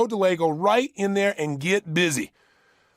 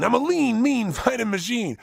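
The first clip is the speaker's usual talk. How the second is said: incantation with a laugh; 4 semitones higher than usual. Shown as a demonstration. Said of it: "it doesn't even have to sound good".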